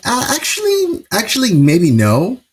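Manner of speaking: high, hedging imitation of backing out; mock reluctant refusal. Allies asked to help with this guy, mock reluctant.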